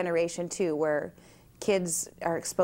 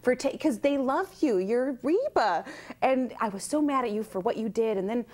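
higher, eager fan chatter; excited fan; 4 semitones higher than usual. Retold or imitated. Fan confessing to the actress how mad she was, eager higher voice. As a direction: rattle on like a starstruck fan. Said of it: "and she goes".

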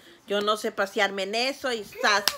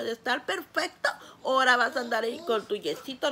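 laughing tearfully; faster than usual. Real, not acted. Mother tells son about cast.

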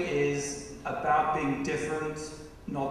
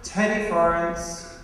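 podium speech; slower than usual. Acted. Introduces dancers from the podium.

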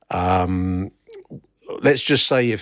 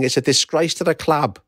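higher-pitched outraged shout, only half raised; mock yell; 6 semitones higher than usual. Reading out an angry woman's protest at the match, mock yell. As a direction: imitate an angry fan's cry. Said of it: "ran forward yelling".

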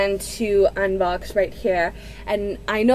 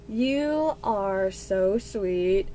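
tender; 3 semitones lower, 4 dB quieter, much slower than usual. Real, not acted. Thanking friend tenderly.

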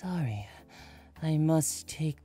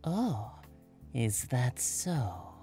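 voice lowered; 3 semitones higher, 5 dB quieter, much slower than usual. A narrator's reading. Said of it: "Akechi's voice lowered".

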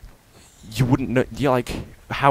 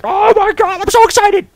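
squealing high troll voice, loud; a huge troll squeaking with delight; excited troll; 7 dB louder than usual. Pretend. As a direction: play the troll squealing with glee. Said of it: "the troll's gonna, like".

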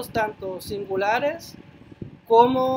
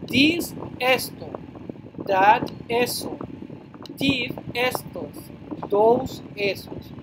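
slow, deliberate this, esto, that, eso; slow drill; slower than usual. Shown as a demonstration. Teacher to class, slow careful word drill. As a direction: spell each pair out slowly for learners. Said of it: "teacher drills pronouns slowly".

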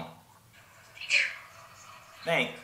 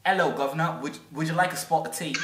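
mock British accent. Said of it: "Is my accent good?".

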